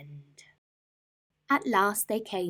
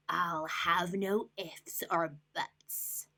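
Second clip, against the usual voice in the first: slow, softer snarl; 4 dB quieter, much slower than usual. Acted. Rat snatching the squirrel's nuts, snarling. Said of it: "snatched the snack and snarled".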